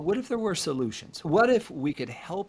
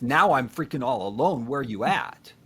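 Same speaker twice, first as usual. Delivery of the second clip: mild mock anger; 5 dB louder than usual. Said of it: "I hear your tone of voice there".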